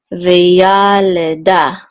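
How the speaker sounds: "Veyaleda" spoken slowly with YA drawn out; secondary accent. Shown as a demonstration. Teacher explaining the accent mark, "Veyaleda" with YA drawn out. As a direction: say "Veyaleda" unsung, lengthening YA. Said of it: "acts as a secondary accent mark".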